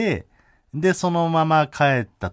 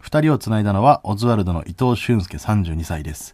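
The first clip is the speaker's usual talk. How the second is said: article read; 3 dB louder than usual. Shown as a demonstration. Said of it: "抜粋した部分読んでいいですか".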